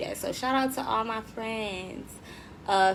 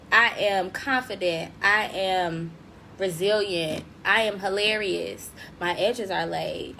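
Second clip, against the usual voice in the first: affirmations; slower than usual. Shown as a demonstration. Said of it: "Those can be your affirmations".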